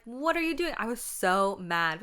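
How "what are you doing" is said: high, loud indignant shout. Retold or imitated. Little girl shouting at her biting sister, high and loud. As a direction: call her out on the spot. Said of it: "I was like".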